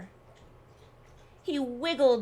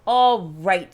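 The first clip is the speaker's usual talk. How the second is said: loud, lower, booming; loud challenge; 4 semitones lower, 10 dB louder than usual. Acted. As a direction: call it out as a dare. Rabbit challenges the bear.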